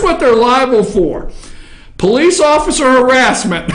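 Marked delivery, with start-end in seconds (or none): 2.0-3.8 reading it through real laughter; can't keep a straight face on the words; cracking up mid-read; laughing. Real, not acted. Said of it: "I shouldn't laugh".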